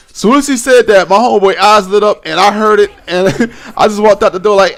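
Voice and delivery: laughing while telling. Real, not acted. Laughing while retelling the gay night.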